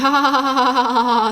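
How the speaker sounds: mechanical deadpan ha ha ha; forced fake laugh. A straight-faced girl typing her fake laugh in a group chat. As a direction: laugh on purpose, with no real fun in it. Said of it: "your face is just like this".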